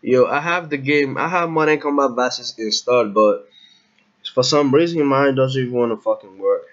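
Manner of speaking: loud frustrated gamer rant; raging gamer. Real, not acted. Game still crashing, venting.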